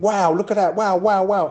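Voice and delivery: a put-on gasp of wonder at a run; imitated wow. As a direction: mimic a fan dazzled by a dribble. Fan imitating his own amazement.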